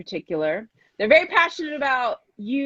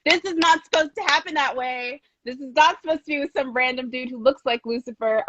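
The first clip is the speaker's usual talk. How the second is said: higher-pitched, indignant fan reaction, re-enacted; mock-distressed objection, pitched up; upset protest; 4 semitones higher than usual. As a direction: protest it like an outraged viewer. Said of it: "I was very upset about that".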